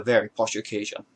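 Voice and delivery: half-hearted attempt at posh English. Hat vlogger admitting they are not good at being posh, mild posh voice. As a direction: put on a mild mock-posh voice. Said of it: "It's my posh voice".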